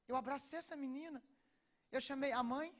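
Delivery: normal talking voice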